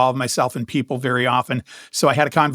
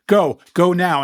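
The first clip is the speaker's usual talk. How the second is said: acted-out urgent send-off, mildly raised; urgent shooing; 4 semitones higher, 3 dB louder, slower than usual. Trying to shoo the German lady home, urgent shooing. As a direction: shoo them off, pitched a little higher. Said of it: "trying to shoo her away".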